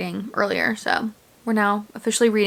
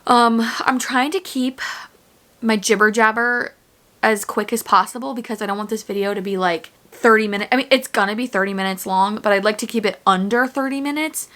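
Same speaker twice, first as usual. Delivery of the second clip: usual speaking voice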